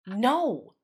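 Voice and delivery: a touch of emphatic refusal. A narrator's reading. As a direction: shut it down flatly. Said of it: "was Natty's emphatic answer".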